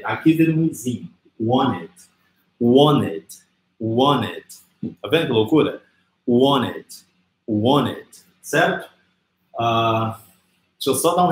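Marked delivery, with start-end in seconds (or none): 1.4-4.5 "wanted" said as "won-ed", no T after N; T mudo. Shown as a demonstration. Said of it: "a gente não pronuncia o T". 6.3-8.1 "wanted" as "won-ed", middle T silent; T mudo. Shown as a demonstration. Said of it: "a gente não pronuncia o T".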